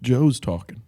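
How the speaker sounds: a soft retold hush to a friend; quiet aside in a workshop; hushed warning. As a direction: keep it down, mildly shushing. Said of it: "I'm like".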